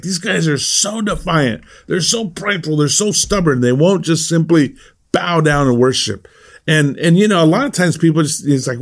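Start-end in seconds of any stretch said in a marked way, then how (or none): 0.0-6.3 lightly voiced Nebuchadnezzar grumbling about stubborn men; imitating an angry king. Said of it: "He's like".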